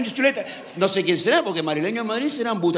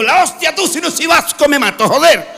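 high, loud hammed-up Basque bravado; Basque joke voice; 10 semitones higher, 9 dB louder than usual. Comedian voices a Basque man boasting after his fall. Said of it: "el vasco se levantó y dijo".

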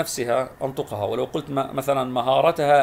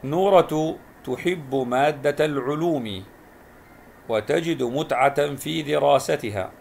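slow, careful reading aloud for pupils; slow classroom read-aloud; slow model reading; slower than usual. Shown as a demonstration. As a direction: read each word out slowly as a model. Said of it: "أقرأ الجمل وألاحظ الكلمة الملونة".

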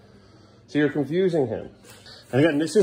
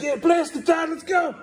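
voicing the kid; 13 semitones higher than usual. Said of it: "He's like".

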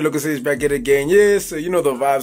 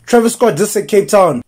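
disbelief; 3 semitones higher, 5 dB louder than usual. Acted. Repeating in disbelief.

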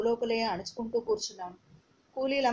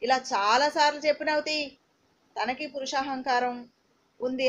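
a taunting, raised reply; said loudly; 2 semitones higher than usual. Retold or imitated. Husband snaps back at his wife, retold a little louder. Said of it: "గట్టిగా అన్నాడు".

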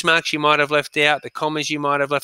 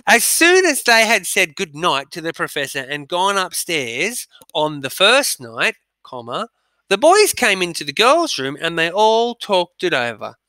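dictation reading; 3 semitones higher than usual. Shown as a demonstration. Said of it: "I'm gonna read it through again".

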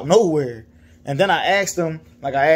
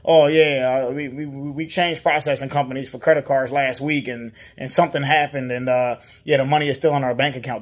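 nonchalant; 3 semitones lower than usual. Retold or imitated. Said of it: "you wanna say it all nonchalant".

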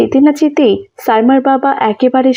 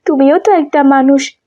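higher, protesting little-sister voice; younger sister's voice; 3 semitones higher than usual. Acted. Younger sister scolding her elder sister, high and pleading. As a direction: plead with her not to carry everything alone.

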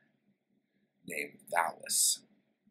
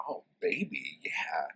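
leering creep; 4 semitones lower than usual. Retold or imitated. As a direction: coo it like a dazed lech. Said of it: "looking at Natala. And he's like".

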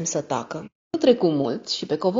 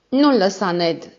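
urgent plea; 3 semitones higher, 7 dB louder, slower than usual. A narrator's reading. Daughter begs Ned.

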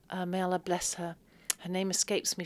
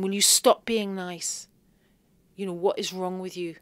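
mock scream; 5 dB louder than usual. Recalling the kind host, a mild mock scream. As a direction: pretend to yell in frustration, not in full. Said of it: "part of me wanted to scream".

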